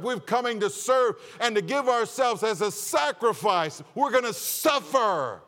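rising fervent sermon delivery; forceful preaching. Acted. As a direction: drive it home from the pulpit. Preacher voicing Jesus, raised.

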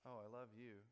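mock loves-me, pitched near normal; petal-plucking verdict. God pulling flower petals over a person, mock approving. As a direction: pretend approval after a little "oh". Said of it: "for each person, God has a flower".

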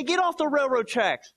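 stern command. Pretend. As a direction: snap an order at a son. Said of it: "I say".

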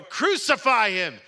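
high, slow, very loud crowd shout. A narrator's reading. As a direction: shout it harder, stretching it out. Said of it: "they shouted all the more".

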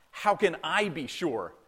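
"I" leaned on in "How can I be sure"; stress on I. Retold or imitated. Stressing Zechariah's doubting question.

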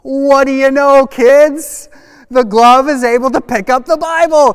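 loud, high showman's astonishment; mock amazement. Pastor shows kids the glove worked, loud mock wonder. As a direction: proclaim the fake miracle to the kids.

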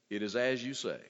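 low, simple, unhurried answer; straightforward, tranquil. Acted. Jesus answering Pilate's question, tranquil and straightforward. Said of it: "straightforwardly and simply answers the question".

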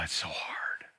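a soft breathy whisper, barely voiced. Real, not acted. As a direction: drop to a whisper as if confessing. Confession of difficulty.

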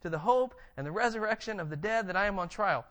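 scripture quote read with force; quoted scripture. Shown as a demonstration. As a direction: proclaim it like Paul to the council. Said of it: "let me read it to quote it".

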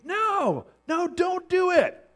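high, pleading shout with drawn-out words; acted scream. Passerby pleading with a man about to jump, screaming. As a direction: cry out in alarm to stop him. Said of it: "And he screams".

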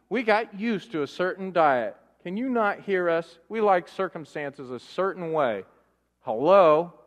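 hammed-up scheldend, een stuk hoger; boze Israëlieten. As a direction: overdreven nagespeelde woedende klacht tegen de leider. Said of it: "They're going".

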